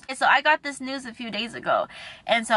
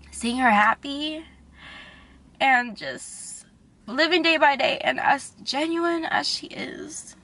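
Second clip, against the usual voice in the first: slow, halting, choked up; real crying, trailing away; tearful; 3 semitones higher, slower than usual. Real, not acted. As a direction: push through real tears, fading out. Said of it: "I'm sorry if I'm crying".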